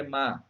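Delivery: "má" isolated as the tonic syllable of amada; stressed syllable alone. Shown as a demonstration. Teacher picking out the tonic syllable, said by itself. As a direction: say "má" alone and firmly. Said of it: "a sílaba tônica é".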